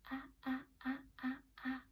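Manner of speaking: tentative and gentle; cautiously. Shown as a demonstration. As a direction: place each sound gingerly. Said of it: "Say it cautiously".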